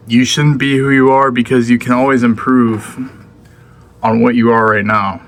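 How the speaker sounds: talking with a mouth full; words round a mouthful of blueberries. Real, not acted. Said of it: "I just love talking with my mouth full".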